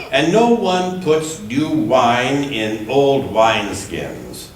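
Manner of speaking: measured, deliberate Bible reading; unhurried lectern reading with gentle emphasis; scripture reading. Acted. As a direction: read the Gospel to the congregation. Reads scripture passage aloud.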